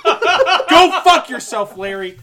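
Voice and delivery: put-on loud, slow, slurring drunk. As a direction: ham up a sloppy drunk yell. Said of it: "I just really like to do a very drunk voice".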